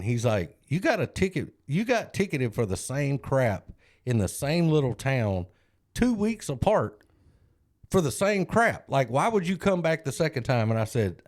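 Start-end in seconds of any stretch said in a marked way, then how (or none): 0.7-10.7 lightly voiced judge asking how anyone could be this careless; incredulous judge. Judge to a man ticketed twice in one town, mock incredulous. Judge scolding a repeat offender.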